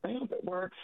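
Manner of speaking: hoarse and husky after a cold; husky, croaky voice from a cold. Real, not acted. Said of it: "I have this really husky voice".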